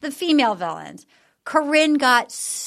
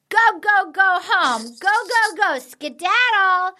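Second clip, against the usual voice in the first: mock shooing; 5 semitones higher, slower than usual. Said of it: "she goes".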